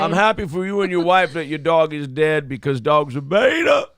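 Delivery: exaggerated smug pundit voice; smug mock of the pundit; mocking impression.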